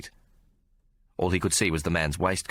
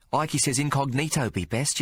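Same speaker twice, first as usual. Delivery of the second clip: put-on higher street-kid voice saying incognito; urchin voice; 8 semitones higher than usual. Sparrow telling the reporter incognito is best, high voice. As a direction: incognito said proudly as a boy. Urchin uses a big word.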